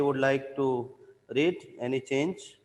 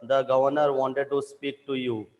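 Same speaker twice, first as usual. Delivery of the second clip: mildly raised calling voice; retold shout; 4 dB louder than usual. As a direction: call him over, half-shouting. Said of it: "Jackson shouted along the corridor".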